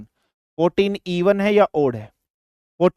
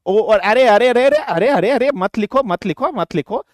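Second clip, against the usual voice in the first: hurried, higher-pitched "no, don't"; real flustered interruption; urgent protest; 4 semitones higher than usual. Real, not acted. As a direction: stop them urgently, words tumbling out in repeats. Urgently stops students writing down mistake.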